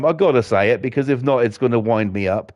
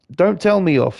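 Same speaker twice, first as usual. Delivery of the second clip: a hint of a sulky ten-year-old; imitating daughter; 5 semitones higher than usual. Lightly voicing his daughter protesting to her father. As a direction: pout it lightly like a child. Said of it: "she say".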